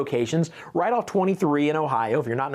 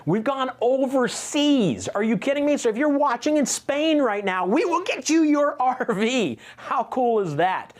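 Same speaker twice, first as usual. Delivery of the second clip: much higher, hyped-up pitch with a laugh; excited; 9 semitones higher than usual. Real, not acted. Salesman thrilling viewers in Spain with overseas delivery, excited and much higher. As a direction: sell it like you can't believe it yourself.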